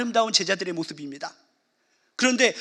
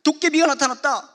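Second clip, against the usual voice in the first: put-on child shrieking; 4 semitones higher than usual. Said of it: "아기가 소리 지릅니다".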